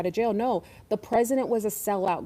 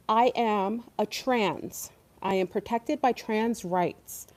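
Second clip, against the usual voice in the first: mock solemn declaration; slower than usual. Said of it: "This is a comedy skit".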